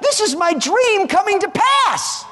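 high, loud, jubilant voice of the Lord; the Lord speaking. Acted. God proudly telling the congregation his dream is coming to pass, exultant. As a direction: proclaim it as God rejoicing over his church. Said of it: "The Lord looks and says".

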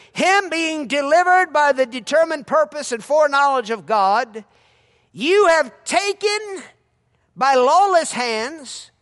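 loud, slow preached scripture; preaching at full force. Acted. Preacher reading Peter's sermon aloud to the church. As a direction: proclaim the verse to the crowd.

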